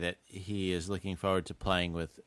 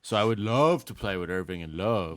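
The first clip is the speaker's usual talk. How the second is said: dry, ironic eagerness; sarcastic. Acted. Co-host voicing LeBron after making the finals, sarcastic. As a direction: fake keenness leaning on "love". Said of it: "saying it sarcastically".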